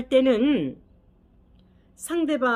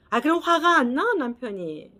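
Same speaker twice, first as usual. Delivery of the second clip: indignant retort; 4 semitones higher, 4 dB louder than usual. Retold or imitated. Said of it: "그러면".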